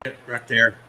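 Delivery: ventriloquist voice, lips still; talking with mouth closed. Acted. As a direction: speak without moving lips. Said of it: "My mouth wasn't moving".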